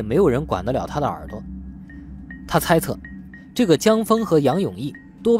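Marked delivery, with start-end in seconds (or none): none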